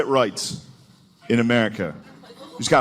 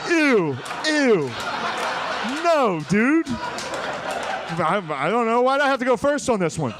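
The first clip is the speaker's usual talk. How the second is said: disgusted congressmen; 8 semitones higher, slower than usual. Pretend.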